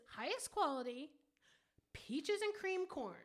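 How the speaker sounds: "peaches and cream corn" slowly as one phrase; read without commas. Shown as a demonstration. Arguing standard grammar to co-host, slow unbroken "peaches and cream corn". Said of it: "if we're going by standard grammar".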